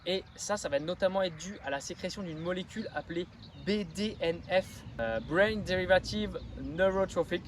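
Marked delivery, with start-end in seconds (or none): 3.6-7.4 slow, careful English with a strong French accent. Real, not acted. Vlogger reads English science term, French-accented and slow. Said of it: "Excusez pour mon accent anglais".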